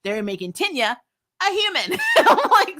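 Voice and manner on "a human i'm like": high laughing burst; amused laughing. Real, not acted. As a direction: laugh it out in disbelief. Laughing at Tenya made human.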